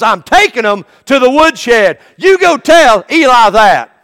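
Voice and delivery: God's stern command, rising to a shout on sons; booming divine order to Samuel, building. Acted. God speaking to young Samuel.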